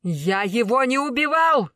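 accused man shouting his innocence. A narrator's reading. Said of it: "закричал Тигран Таранян".

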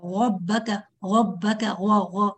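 غبك and غا made from the throat like a gh; guttural ra error. Shown as a demonstration. Teacher imitates a student who brings ra from the throat. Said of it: "أنت جايبة الصوت من الحلق".

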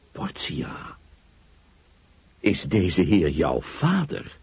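half-whispered name, then slow halting question; stammering. Acted. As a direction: stammer it out in disbelief. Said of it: "stamelde ik". (stamelend van verbazing, traag en haperend)

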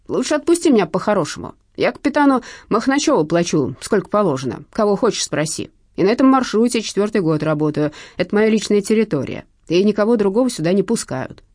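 a hint of an indignant crook; protesting pickpocket. A narrator's reading. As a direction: argue your way out of arrest.

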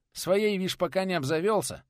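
high, light teasing voice; joking aside. Acted. Teacher joking to Nikodim, high and light. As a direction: tease the friend lightly.

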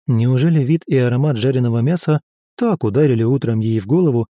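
plain reading voice

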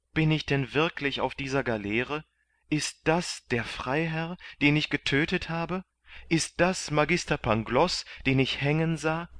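can't believe his eyes; bewildered disbelief. A narrator's reading. Kandid, amazed at finding his friends as slaves, disbelieving.

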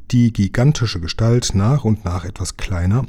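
plain reading voice

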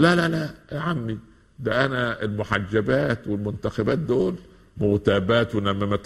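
put-on high, indignant protest of a girl; daughter refusing the hijab. Daughter rejecting her uncle's advice about the hijab, high protest. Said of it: "تقول".

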